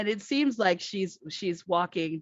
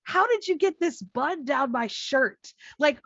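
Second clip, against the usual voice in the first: indignant; 8 semitones higher than usual. Retold or imitated. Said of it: "she's like".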